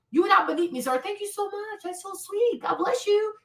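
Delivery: quiet, high, sweet reassurance; soft polite thanks. Retold or imitated. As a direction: soften it so he feels respected.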